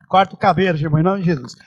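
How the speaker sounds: a lighter, low God voice; lightly playing God giving an order; mock voice of God. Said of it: "voz de trovão, voz de muitas águas".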